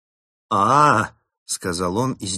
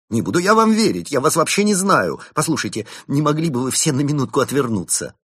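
suspicious chimp monk; 8 semitones higher, 6 dB louder than usual. Acted.

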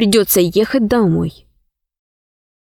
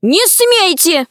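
high, drawn-out cry of protest; alarmed cry; 7 semitones higher, slower than usual. A narrator's reading. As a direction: call out slowly and high to forbid it. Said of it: "закричала Алиса". (протестующий возглас)

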